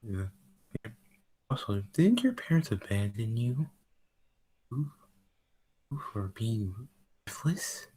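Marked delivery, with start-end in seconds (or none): 4.7-7.9 taunting whisper. Acted. Taunting Rose about her parents.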